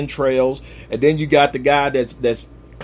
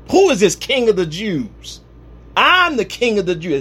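raised voice on Herod's question and answer; preaching yell; 4 semitones higher than usual. Real, not acted. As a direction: project it out to the back of the church. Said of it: "Sorry about yelling".

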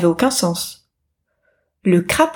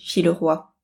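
ordinary delivery, nothing marked

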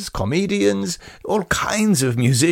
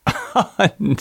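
a short, higher bright laugh; short merry laugh, pitched up; light laugh; 8 semitones higher than usual. Acted. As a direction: laugh off the joke. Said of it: "She laughed".

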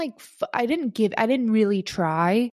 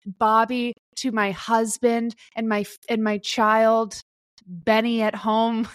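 mock Emmy acceptance speech. Podcast host asks her to improvise an Emmy speech, gushing and overwhelmed. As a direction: play the overwhelmed winner thanking everyone. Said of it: "you are going to do your Emmy speech".

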